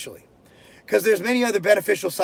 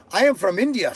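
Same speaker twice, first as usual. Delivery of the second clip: a light mock Indian accent like Short Circuit; hint of an Indian movie accent. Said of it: "that was my Short Circuit accent".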